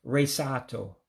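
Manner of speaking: Resato, resort in Igbo-accented syllables. Shown as a demonstration. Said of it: "just like saying it in English with an accent".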